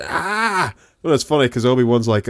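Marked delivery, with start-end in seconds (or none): 0.1-0.7 short, high mock yelp; higher-pitched pretend scream. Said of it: "he's like".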